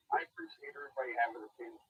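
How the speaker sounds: faint caller on a bad line; muffled phone line. Real, not acted. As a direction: voice fading out on the phone. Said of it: "Now we can barely hear you".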